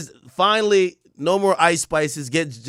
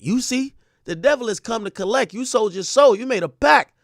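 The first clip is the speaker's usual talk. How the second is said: high, loud doom-saying diva; mock grand denunciation, pitched way up; a rapper; 7 semitones higher, 5 dB louder than usual. Telling rival the devil has come, high theatrical impression. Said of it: "read this in a rapper's voice".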